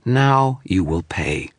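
slow, drawn-out sneer; sneering threat. Acted. The image threatens the wizard with its demon, sneering. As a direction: savour the threat, gloating. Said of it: "a sneer to its voice".

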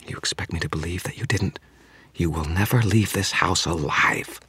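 lightly voiced vampire, hushed menace; menacing vampire. Vampire Bianca voiced throughout.

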